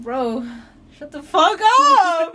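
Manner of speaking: loud, slow mock yell. Retelling a friend telling her off, loud and slow. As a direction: snap at an annoying friend. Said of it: "One of our friends was just like".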